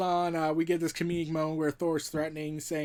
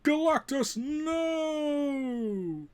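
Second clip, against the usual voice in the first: yelling; 7 semitones higher, much slower than usual. Acted. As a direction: call out to stop him. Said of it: "Thor yells out".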